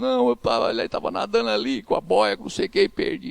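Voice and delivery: high-pitched retelling of a tearful daughter; mock tearful, words tumbling out; imitated crying. Daughter explaining to her father how she lost it, imitated crying.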